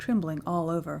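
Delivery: ordinary delivery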